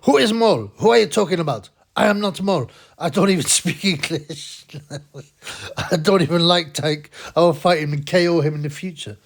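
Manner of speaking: put-on high, loud broken English in a Mongolian accent; mock Mongolian accent. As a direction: deny it indignantly, Mongolian accent, laughing. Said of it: "he goes".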